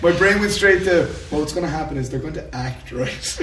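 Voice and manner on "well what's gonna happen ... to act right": dry sarcastic retort; deadpan Irish sarcasm, breaking into a laugh at the end. Retold or imitated. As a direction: say it as dry humour. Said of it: "a sarcastic".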